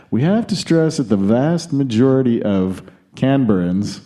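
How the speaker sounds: lightly attempted Aussie accent; put-on Australian accent. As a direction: read the quote with a hint of bad Australian. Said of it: "he didn't say it in this accent".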